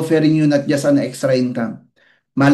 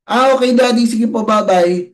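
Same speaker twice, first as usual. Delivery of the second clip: put-on child's voice; 6 semitones higher than usual. Child leaving politely.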